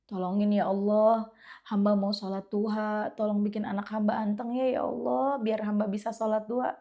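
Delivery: soft pleading prayer, said as if inside; silent inner prayer. Retold or imitated. Mother praying to God for a calm child, softly. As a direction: ask God quietly, from the heart. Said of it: "ngomong ngebatin".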